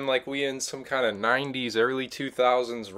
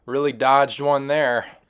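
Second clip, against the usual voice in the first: relieved ooh; 4 semitones higher, 7 dB louder, slower than usual. Retold or imitated. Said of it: "I'm like".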